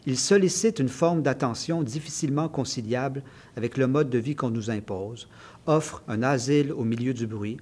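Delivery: measured, evenly phrased author's reading; literary reading aloud. Acted. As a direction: read your essay aloud, phrase by phrase. Reads a passage from the book. (lecture littéraire posée à voix haute)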